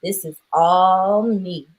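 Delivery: slow, drawn-out delivery of her line; replaying a favorite movie line slowly; quoting her line. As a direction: savor each word of the film line. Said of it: "And when she said".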